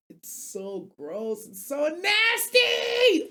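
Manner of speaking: retch out the words in disgust; dry heaving. Real, not acted. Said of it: "I'm gagging now".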